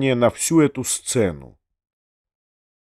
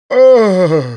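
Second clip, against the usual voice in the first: high, loud "Ah!" shriek; shrieked gasp; 7 semitones higher, 8 dB louder than usual. A narrator's reading. Генеральша collapsing on the sofa, loud high shriek. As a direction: cry out as if swooning. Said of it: "вскрикнула генеральша".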